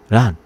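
"run" with the R turned into an L. Retold or imitated. Japanese friend urging him away, "run" said with L for R. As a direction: say "run" as "lun". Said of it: "The R is like L".

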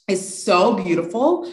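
usual speaking voice

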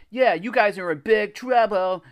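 high, loud taunting yell. A narrator's reading. Jimmy yells after the kids on bikes, yelling. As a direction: yell a threat after them. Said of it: "Jimmy yelled".

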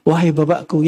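low, tender call to father; gentle address. Acted. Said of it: "panggilan lembut". (panggilan lembut, nada rendah)

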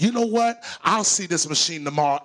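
sudden high, loud outburst; exasperated outburst. Retold or imitated. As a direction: throw up your hands at the machine, loudly. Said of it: "And I said".

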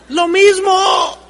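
slow shouted punchline; emphatic shout. Real, not acted. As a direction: hammer the point home. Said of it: "preacher drives the point home".

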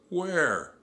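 high, loud one-word demand. A narrator's reading. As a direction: demand an answer at once. Captain demands the location.

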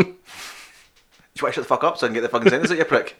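mock annoyed. Mock row over being interrupted.

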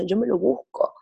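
whispered, as if confiding. Real, not acted. Telling the host, whispered confession.

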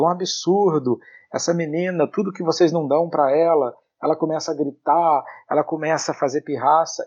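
mock outrage about a child; indignant complaint. Retelling an adult's complaint about a girl's tantrums, indignant. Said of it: "uma pessoa falando comigo".

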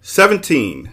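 high, loud blurted answer; shout. A narrator's reading. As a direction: call it out triumphantly. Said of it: "shouted the humbug".

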